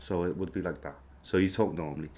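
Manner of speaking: understated Scouse; reduced Scouse accent. Shown as a demonstration. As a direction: speak light Scouse without thinking about it. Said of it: "do a reduced version of the accent".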